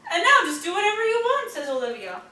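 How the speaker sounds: put-on lively storybook reading to kids; reading to children. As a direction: read it like a bedtime picture book. Reading picture book aloud.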